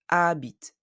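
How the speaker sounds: "Habite" drawn out, starting on the A; silent H. Shown as a demonstration. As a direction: say "Habite" slowly with no H. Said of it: "The H of habite is silent".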